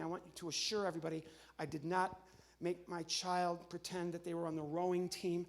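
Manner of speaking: normal talking voice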